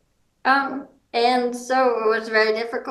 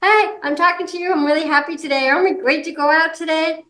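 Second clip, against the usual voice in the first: bright, higher, animated greeting; cheerful demo; 5 semitones higher, faster than usual. Shown as a demonstration. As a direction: show friendly body language with cheer. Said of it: "the other body language".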